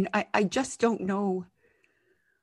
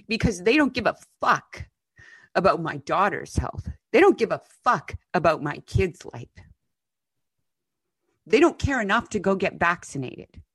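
raging mad. Real, not acted. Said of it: "I'm raging mad".

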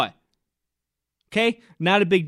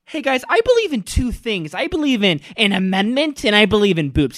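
higher, hammed-up bro to his friends; mock dudebro; 4 semitones higher than usual. Imitating Clay bragging to his best friends, mock bro. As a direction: brag like a proud frat guy. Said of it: "you'll be like".

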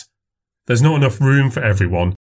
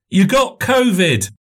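put-on little boy voice; 10 semitones higher, slower than usual. A narrator's reading. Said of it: "said Robbie".

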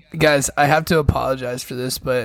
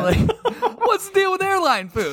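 stand-up comic; slower than usual. Pretend. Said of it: "It's like stand-up comedy right now".

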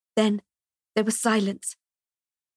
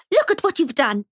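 put-on a stern woman condemning a boy; furious scolding; 7 semitones higher than usual. A narrator's reading. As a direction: spit it at the child. Ruth Ann scolding the boy.

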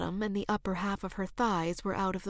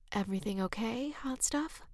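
teasing whisper; 3 semitones higher, 5 dB quieter than usual. Acted. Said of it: "in such a steady voice".

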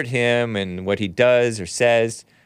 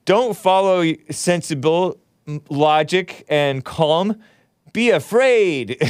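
lightly hammed-up media scaremonger, slow and raised; mock fearmonger; 4 semitones higher, slower than usual. Host voices mainstream media whipping the brain, mock fearmongering. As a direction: draw out the mock warning, higher at the end.

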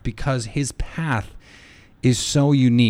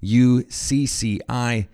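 spelling slowly; slower than usual. Shown as a demonstration. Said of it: "The I is silent".

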